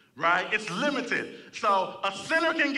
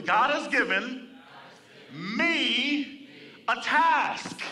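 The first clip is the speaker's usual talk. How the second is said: call and response; 4 semitones higher, slower than usual. Real, not acted. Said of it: "Say this with me".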